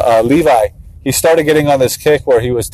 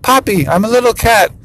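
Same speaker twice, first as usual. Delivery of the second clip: high-pitched kid playing kitten; little kitten; 9 semitones higher than usual. Three-year-old pretending for his papa, high kitten voice. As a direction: imitate a small child pretending to be a cat. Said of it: "he pretends he's a cat".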